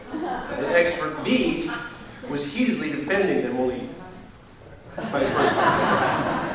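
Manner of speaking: fighting laughter at the punchline; laughing. Real, not acted. Punchline of a funny anecdote.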